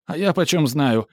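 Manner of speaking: high, loud squeal; cornered manager squealing back; shrieked. A narrator's reading. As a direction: squeal it out in panic. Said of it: "взвизгнул Шильке".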